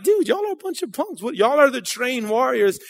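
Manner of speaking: high, scornful jab at cowards; a young shepherd needling the soldiers; mocking young David. David scoffing at the army, pitched high. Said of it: "I just picture that, like, he's like".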